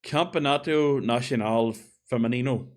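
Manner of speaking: "Campeonato Nacional Feminino" sounded out in the speaker's own accent; attempted Portuguese pronunciation. Real, not acted. Reading the Portuguese league's name, attempted pronunciation. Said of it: "I apologize for the pronunciation here".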